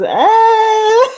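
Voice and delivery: very high, loud squeal; imitating Coco's squeal. Mimicking Coco's excited squeal to the stream, very high. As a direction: shriek it way up high. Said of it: "And she goes".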